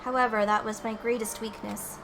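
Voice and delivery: softly voiced Sakura; voiced game character. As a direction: read it as the stoic fighter. Reads game character's lines.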